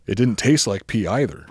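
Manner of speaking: reading the line while laughing; laughing through it. Real, not acted. Comedian reading the kid's diary aloud, laughing through the line. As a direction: fight through the giggles to get it out.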